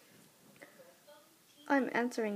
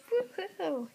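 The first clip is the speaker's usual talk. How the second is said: excited cheer; 7 semitones higher, 4 dB louder than usual. Real, not acted.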